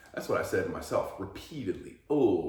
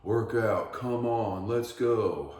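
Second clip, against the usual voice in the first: mock trainer barking, higher and louder; pushy trainer voice; 4 semitones higher, 6 dB louder, much slower than usual. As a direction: hype him up like a gym coach. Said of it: "telling them".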